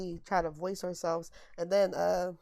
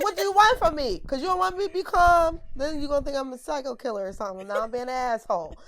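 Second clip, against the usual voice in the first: retold exasperated rant; 4 dB louder than usual.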